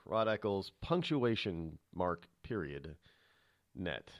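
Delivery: slow, deliberate "Rod Eccles, punctuation mark, period, net", each part separate; spelled out slowly. Shown as a demonstration. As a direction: spell "period" out clearly so nobody types dot. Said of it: "the actual period".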